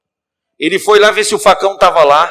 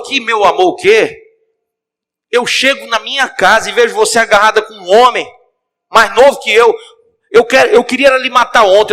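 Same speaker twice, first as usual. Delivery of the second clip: raised, higher furious accusation; angry confrontation; 6 semitones higher, 4 dB louder than usual. Acted. Husband shouting at his wife at the door, furious. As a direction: tear into her, loud and high.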